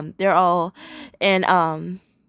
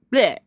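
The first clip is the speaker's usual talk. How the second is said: vampire bleh. Retold or imitated. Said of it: "dressed up as a vampire".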